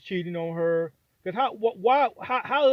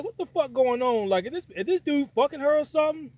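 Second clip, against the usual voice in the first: higher-pitched disbelief, acted out; incredulous reaction; 7 semitones higher than usual. Viewer reacting to the brother's forgiveness, incredulous. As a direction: question it in baffled, raised pitch.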